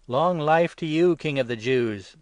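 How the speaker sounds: loud, slow, high sneering hail; mocking salute. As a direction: hail him in scorn. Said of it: "when they had left off mocking him".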